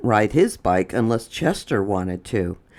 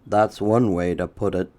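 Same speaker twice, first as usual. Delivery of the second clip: a hint of a lower dry father; dad answering mom, lightly lower; father's voice; 4 semitones lower than usual. A narrator's reading. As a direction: drop a little lower for dad. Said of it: "said Chester's father".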